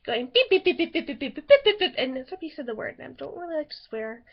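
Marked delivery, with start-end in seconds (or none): 0.3-1.9 rapid run of beeps; imitated censor beeps. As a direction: imitate a little kid swearing in bleeps. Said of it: "went around and going".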